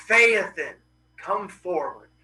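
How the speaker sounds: lightly acted commanding god; loud call on the name, then settle; summoning god. Helios calls his son to the throne, mildly commanding.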